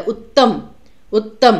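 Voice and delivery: उत्तम with the double त pressed; उत्तम, doubled त held; pressure on त्त. Shown as a demonstration. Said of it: "उसको हमने थोड़ा प्रेशर देके बोला है".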